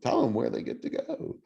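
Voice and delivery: high, hammed-up game show host. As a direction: announce it like a cheesy TV host. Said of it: "sound like a game show host".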